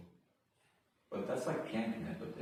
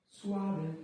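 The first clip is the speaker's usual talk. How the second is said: high squeak; 13 semitones higher, 6 dB louder than usual. Pretend. Trying word, very high.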